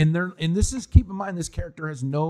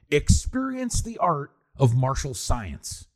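"Experience the art of martial science" drawn out slowly like a trailer; slow movie-tagline read; slower than usual. Retold or imitated. Podcaster quoting a goofy movie line, slow mock-epic read. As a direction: savor each word like a cheesy tagline. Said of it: "I have a good one".

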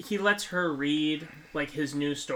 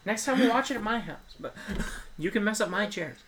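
laughing apology; 7 semitones higher, 8 dB louder than usual. Real, not acted. Mock apology over ruined chair.

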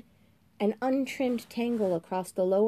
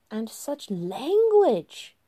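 high, very slow mock-shocked tut; prim disapproval; 4 semitones higher, 6 dB louder, much slower than usual. September scolds April's language, high and slow. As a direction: sound scandalised at her words.

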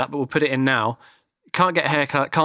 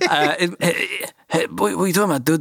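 put-on Russian accent; 3 semitones higher than usual. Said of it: "I don't know why he's Russian".

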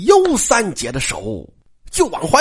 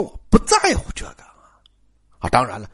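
whisper; 8 semitones lower, 3 dB quieter than usual. Acted. Jia Lian saying he doesn't care.

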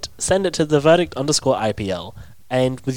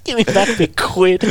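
mock British accent; 4 semitones higher than usual. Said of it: "going British".

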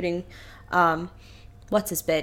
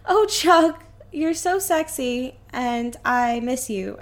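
hammed-up flirt, drawn out; swooning lady; 2 semitones higher, slower than usual. Lady flirting with Chuck, slow mock coo.

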